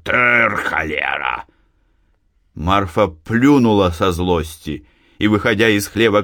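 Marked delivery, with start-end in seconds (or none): 0.0-1.4 hoarse voice. A narrator's reading. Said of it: "простуженный голос Евдокима".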